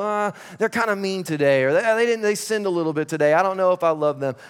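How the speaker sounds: a hint of a wavering, fickle voice, quick; mock fickle God. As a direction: play a flaky God who can't decide, lightly. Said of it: "identity crisis and go".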